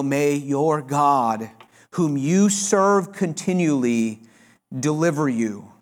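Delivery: slow, hushed blessing with each word weighed; solemn farewell. Acted. The king blesses Daniel at the lions' den, slow and hushed. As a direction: let it sink in, sad and slow.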